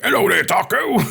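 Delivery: high, bright mock bloke greeting calling to the cat. Streamer greeting his cat in bloke mode, high and loud. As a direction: sing out a cheery hello at the cat. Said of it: "the cat's gonna be like".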